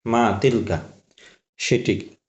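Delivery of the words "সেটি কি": whispered aside. Real, not acted. Aside to himself.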